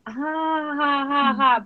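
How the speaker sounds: high, spelt-out polite laugh; put-on uneasy "ha ha"; awkward fake laugh. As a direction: imitate laughing along when unsure what to say. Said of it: "kind of thing where you're like".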